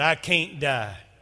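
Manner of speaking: very loud, bold, fearless delivery. Retelling how a man answered another man: retelling a bold declaration. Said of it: "and he boldly said".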